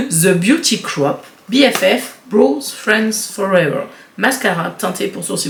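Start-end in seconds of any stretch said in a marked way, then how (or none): 0.1-3.8 slow, deliberate English accent from a French speaker; show-off English accent. Shown as a demonstration. Vlogger showing off the brand name, careful English accent. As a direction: read it out slowly in your best English accent. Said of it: "vous avez vu mon super accent".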